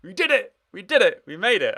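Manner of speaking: loud, high celebration; excited. Real, not acted. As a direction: cheer the success. Celebrating that the model works.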